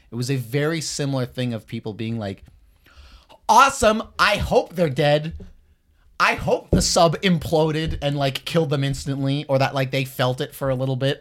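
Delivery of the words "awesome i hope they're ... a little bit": mock gleeful cheer. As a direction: sneer at cruel online cheering. Mocking people cheering sub deaths.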